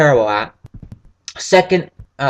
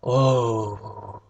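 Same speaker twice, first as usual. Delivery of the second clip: gasp; 4 semitones lower, 8 dB quieter than usual. Real, not acted. Reacts on being reminded of something.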